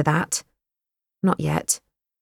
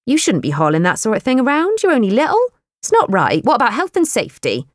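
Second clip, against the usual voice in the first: higher, protective scolding; fussing older woman; 6 semitones higher than usual. Acted. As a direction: cluck over her like a worried aunt. The speaker voiced fussing over Kate.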